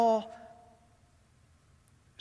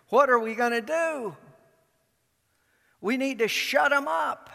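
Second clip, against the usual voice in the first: worried; 6 semitones higher, faster than usual. Acted. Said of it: "the authorities in Jerusalem say".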